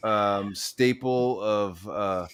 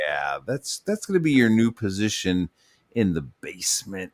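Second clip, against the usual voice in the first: office boss; 4 semitones lower than usual. Acted. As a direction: break bad news in a droning manager voice, pitched down. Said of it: "moving Jim Lee down into the fucking basement".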